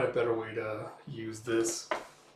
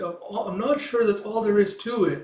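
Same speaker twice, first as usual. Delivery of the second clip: high Kippa voice; 8 semitones higher, 3 dB louder than usual. Acted. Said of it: "Kippa's like".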